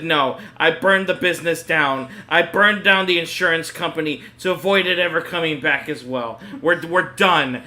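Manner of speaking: exasperated, so done with it; fed up. Retold or imitated. Worn-out boyfriend refusing his girlfriend's request, exasperated. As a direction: declare it all burned down, over it. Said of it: "this time I was, like, so done".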